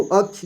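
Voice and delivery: "अक्ष" said as akch, not as chha; a teacher's model pronunciation of "अक्ष"; clear akṣ sound. Shown as a demonstration. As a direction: stress the "क्ष" as k plus sh. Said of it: "अक्ष पढ़ते हैं इसको".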